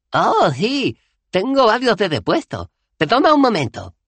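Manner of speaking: hablando sin dentadura, muy agudo; sin dientes. A narrator's reading. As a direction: Dos Flores se saca los dientes mientras habla. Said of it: "siguió hablando en su tono habitual". (voz sin dientes, muy aguda)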